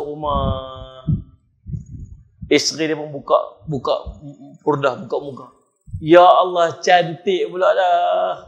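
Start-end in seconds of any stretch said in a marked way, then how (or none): 6.0-8.4 loud gasp, then slow; stunned by her beauty; drawn-out delighted wonder; amazed. Retold or imitated. Husband sees wife's face.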